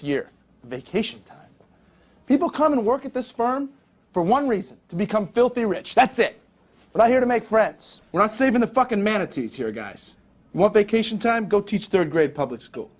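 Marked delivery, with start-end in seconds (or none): 2.3-12.9 fierce pep talk. Acted. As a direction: hammer it into the trainees. Boss lecturing trainees fiercely.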